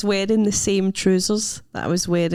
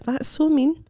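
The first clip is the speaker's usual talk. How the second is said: mock outrage; 8 semitones higher, slower than usual. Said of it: "So I was like".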